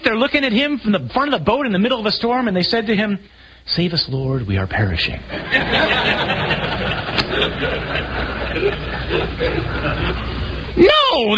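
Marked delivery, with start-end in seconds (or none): 3.7-5.2 lightly mocking a flat, polite lector's read; a hint of a monotone church reading; mock bland reading. Preacher mocking how lectors read the disciples' cry, flat and polite. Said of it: "they didn't say it like that". 5.3-10.7 breathy laugh. Real, not acted. Laughs at his own mock reading. 10.8-11.4 sudden high, loud no; emphatic no. Real, not acted. Preacher rejecting the bland reading, a sharp loud no. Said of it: "they didn't say it like that".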